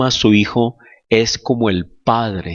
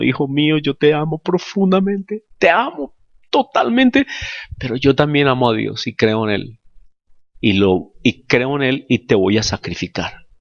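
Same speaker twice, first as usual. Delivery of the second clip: tender father; 2 semitones higher than usual. Retold or imitated. Father voiced speaking to son.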